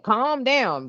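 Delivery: first light "Calm down" from a pushy friend; mock nagging "calm down". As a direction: nudge them lightly to "Calm down". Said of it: "somebody telling you to calm down".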